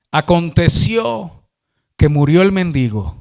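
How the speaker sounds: slow, solemn scripture proclamation; measured Bible reading. Acted. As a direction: proclaim the verse with weighty pauses. Reads the Bible verse aloud.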